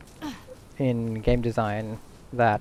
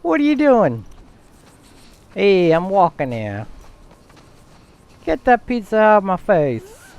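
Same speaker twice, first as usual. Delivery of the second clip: loud, higher hammed-up Brooklyn accent; slow, loud, higher mock Brooklyn New Yorker; 6 semitones higher, 5 dB louder, slower than usual. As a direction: shout it like a Brooklyn cabbie, slow and brash. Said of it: "A Brooklyn accent".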